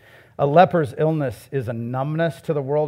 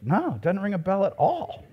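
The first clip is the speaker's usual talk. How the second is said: kids playing innocent; 5 semitones higher than usual. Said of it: "they're just like".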